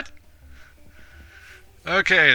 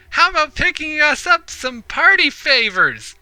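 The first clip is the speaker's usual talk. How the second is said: put-on high, loud party-girl character voice; Polly the party ghost; 13 semitones higher, 6 dB louder than usual. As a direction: pipe up as an excitable ghost. Voices Polly in game dialogue.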